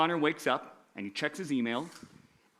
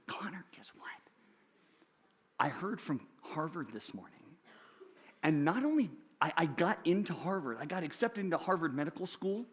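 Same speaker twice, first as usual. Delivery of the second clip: hushed, secretive whisper to a classmate; 7 dB quieter than usual. Acted. Rebecca leaning over in English class, whispering her news.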